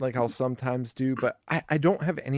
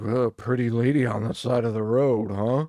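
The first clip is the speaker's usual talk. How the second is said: put-on psycho voice; 3 dB louder than usual. Retelling a scene where a man approaches a car: imitating a psycho. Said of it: "he's talking like a psycho".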